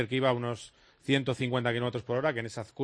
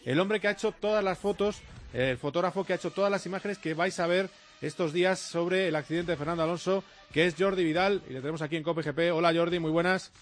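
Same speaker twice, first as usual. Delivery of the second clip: higher-pitched on-air interview introduction; radio presenter intro; 5 semitones higher than usual. Acted. Presenter introducing the photographer who was at the curve, radio intro.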